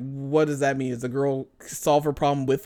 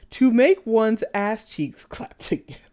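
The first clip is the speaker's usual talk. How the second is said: laughing; 6 semitones higher, 3 dB louder, slower than usual. Real, not acted. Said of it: "It says".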